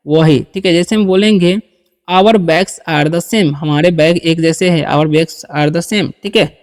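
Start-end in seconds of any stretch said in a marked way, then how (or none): 2.1-3.5 very slow, word by word; spelled-out dictation pace; slow model reading. Shown as a demonstration. Teacher models English sentence. 4.9-6.1 very slow, word by word; spelled-out dictation pace; slow model reading. Shown as a demonstration. Teacher repeats model sentence.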